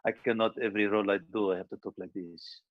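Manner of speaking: stock screen-villain voice; pimp terrorist voice. Acted. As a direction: do the typecast pimp-terrorist, fading at the end. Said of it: "doing the same pimp terrorist voice".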